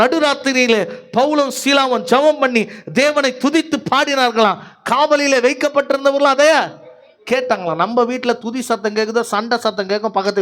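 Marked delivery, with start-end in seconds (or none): 0.0-7.8 raised-pitch scripture proclamation; high, ringing pulpit delivery; preaching. Acted. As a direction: proclaim the verse to the congregation. Preacher declaims the verse.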